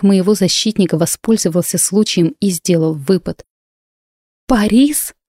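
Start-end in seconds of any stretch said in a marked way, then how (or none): 4.5-5.1 a high, startled gasp of the name; horrified gasp at the sight of Paris; gasp in horror. Acted. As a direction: catch your breath on the name in shock. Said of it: "в ужасе ахнула я".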